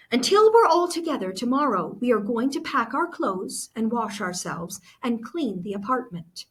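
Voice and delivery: a hint of a take-charge mother; a mother setting the plan for the next day; lightly voiced Mama. Mama gives orders.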